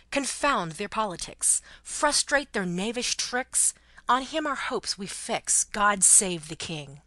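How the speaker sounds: slow, measured patriotic verse; stately, deliberate declaiming; solemn recitation. A narrator's reading. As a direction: recite it like a loyal anthem, drawing out the words. Recites anthem lines as her maxim.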